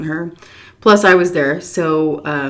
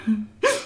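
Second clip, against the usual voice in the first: imitated sob gasp; 4 semitones higher, 3 dB quieter than usual. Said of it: "she was like that".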